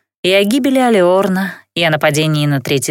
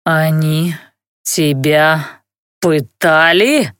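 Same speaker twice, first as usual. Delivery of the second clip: inhuman furious rustle; 3 semitones lower, much slower than usual. A narrator's reading. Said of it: "Яростно прошелестел нечеловеческий голос".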